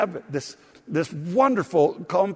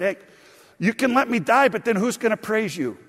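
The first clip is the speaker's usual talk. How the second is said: cheeky, higher bargaining with God; smart alecky prayer; 6 semitones higher than usual. Retold or imitated. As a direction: needle the Lord like a cheeky king. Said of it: "pray smart alecky like that".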